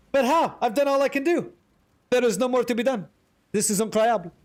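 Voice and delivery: high-pitched theatrical lament; mock despair. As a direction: play the helpless, put-upon hero.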